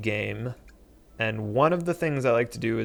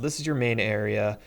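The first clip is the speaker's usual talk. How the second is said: ordinary delivery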